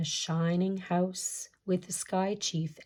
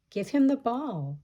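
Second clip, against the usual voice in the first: commanding chief; 5 semitones higher, 3 dB louder than usual. Acted. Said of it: "said the Sky Chief".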